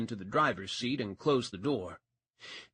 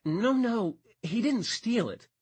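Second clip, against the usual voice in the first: cutting in; 10 semitones higher, 3 dB louder than usual. A narrator's reading. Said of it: "Callie cut him off".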